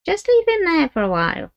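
put-on a suspicious old gypsy great-grandmother; old gypsy woman.

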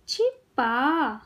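छिपा slowly, pause after छि; syllable by syllable. Shown as a demonstration. Teacher teaching kids to read, syllables apart. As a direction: break छिपा into छि - पा. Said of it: "शब्द पढ़ना सिखाऊंगी".

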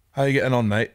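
lightly imitated upper-class greeting; upper-class accent. Acquaintance greeting the other boys, imitated upper-class accent. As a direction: put on a touch of upper-class English. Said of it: "really sort of upper class".

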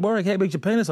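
imitating housemates. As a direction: pitch up as a cheeky girl asking. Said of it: "and they said".

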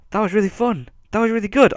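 high, beaming delight. Real, not acted. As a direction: gush with joy. Happy after win.

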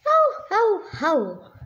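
jolly Santa belly laugh. Acted. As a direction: Santa chuckling at the moose in his toys. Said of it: "Santa laughed".

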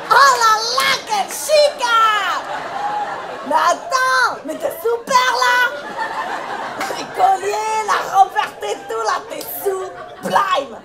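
gushing praise. Acted. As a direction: lay the compliments on thick. Stylist gushing over Christina's outfit.

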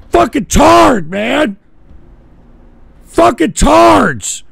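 furious yelling. Real, not acted. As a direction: yell in real frustration at the screen. Raging at the prank call.

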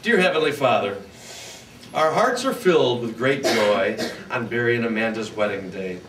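prayer. Real, not acted. Officiant leads a prayer.

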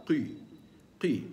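قي, the ق kept heavy; heavy qaf. Shown as a demonstration. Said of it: "يبقى". (القاف مفخمة مع الكسر)

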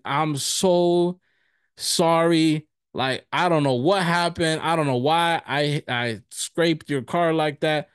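imitating a flustered, drawn-out sorry; retold earnest apology. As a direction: act out apologizing to someone you've wronged. Retold apology to the car's owner.

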